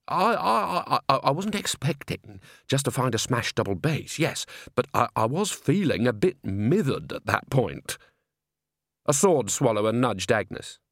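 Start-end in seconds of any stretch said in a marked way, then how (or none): 0.1-8.0 stumbling, defensive stammer; flustered stammer. Acted. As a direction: caught out, tripping over his words. Bucket flustered excuses.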